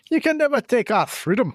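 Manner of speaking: a playful Braveheart Scottish battle cry on "You can never take our freedom."; Braveheart Scottish accent. Retold or imitated. Quoting Braveheart to a co-host in a mock Scottish accent. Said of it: "the speaker's Braveheart accent".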